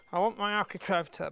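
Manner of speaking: talking round a pencil held in teeth; pencil in mouth. Real, not acted. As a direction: speak with a pencil in your mouth. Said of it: "pencil in my mouth".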